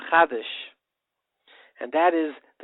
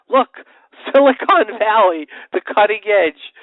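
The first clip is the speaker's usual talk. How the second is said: excited boast; 7 semitones higher, 10 dB louder than usual. Real, not acted. Excited boast about Israel.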